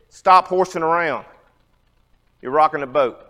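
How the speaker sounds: lightly voiced grandfather telling a boy to sit down; grandfather's stern voice. Grandfather scolding kids horsing around in the boat, mildly stern. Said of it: "my grandfather's voice".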